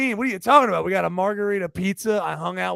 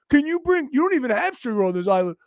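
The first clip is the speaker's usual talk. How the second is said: lightly voiced pushy tourist, somewhat higher and louder; mock entitled tourist; 4 semitones higher, 3 dB louder, faster than usual. Mocking tourists demanding sugar, a hint of whine. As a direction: demand sugar like a spoiled guest. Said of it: "We're just like".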